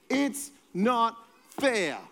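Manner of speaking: drawn-out sulky "It's not fair"; whiny child. Retold or imitated. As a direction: whine it like a kid stamping its feet. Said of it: "You have to stomp your feet when you do that".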